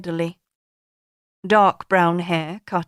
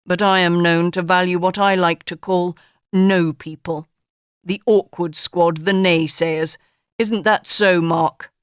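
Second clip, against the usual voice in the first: lightly voiced grand boss, a touch louder; pompous tycoon; 4 dB louder than usual. Sir Jack lecturing his interviewee, lightly voiced pompous boss. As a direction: hold court like a self-satisfied magnate.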